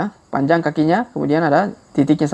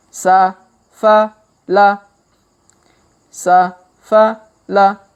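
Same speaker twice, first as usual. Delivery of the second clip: slow reading; 3 semitones higher, 3 dB louder, much slower than usual. Shown as a demonstration. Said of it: "Kita baca pelan-pelan".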